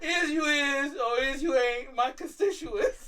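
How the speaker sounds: hammed-up Southern orator, slowing at the end; mock Southern accent. Friend mocks actor's Southern role, exaggerated Southern accent.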